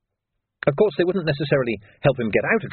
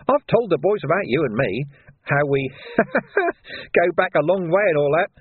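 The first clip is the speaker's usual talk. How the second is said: higher, sneering villain voice; sly thug Carcer; 6 semitones higher than usual. A narrator's reading. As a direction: voice Carcer as a grinning menace.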